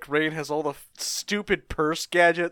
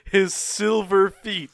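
slow, drawn-out move announcement; mock-dramatic reveal; 4 semitones higher, 4 dB louder, much slower than usual. Host announcing Gundam's special move, mock-dramatic. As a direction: unveil it with mock grandeur, slowly.

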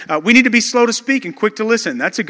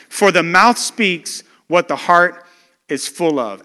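slow, louder solemn Bible reading; scripture reading; 4 dB louder than usual. Acted. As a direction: read the verses out with weight, slowly. Reads the scripture passage aloud.

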